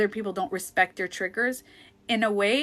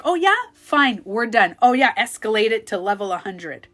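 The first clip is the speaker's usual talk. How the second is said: loud sarcastic snap; escalating; 2 semitones higher, 7 dB louder than usual. Retold or imitated. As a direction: sneer it and escalate. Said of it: "And I'd be like".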